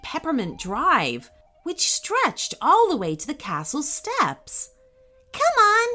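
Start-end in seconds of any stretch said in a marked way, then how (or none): 5.3-5.9 high, bright-eyed beckoning with a smile; smiling invitation. Acted. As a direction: call them along, high and louder, smiling.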